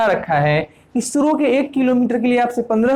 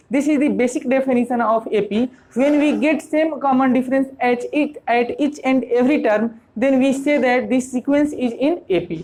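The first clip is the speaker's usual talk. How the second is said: slow, measured English definition; formal definition; much slower than usual. Shown as a demonstration. Teacher states the definition of AP to students, slow and formal. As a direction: lay down the definition slowly so it sinks in. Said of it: "उसको AP कहते हैं".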